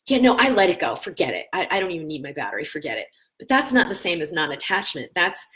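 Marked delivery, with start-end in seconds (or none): 0.1-3.1 miffed detachment. Retold or imitated. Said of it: "a miffed, uh, detachment".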